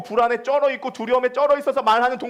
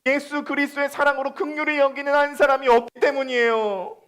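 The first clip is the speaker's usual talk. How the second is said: impassioned preaching; 4 semitones higher than usual. Acted. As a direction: preach it out to the whole church. Preaching at full force.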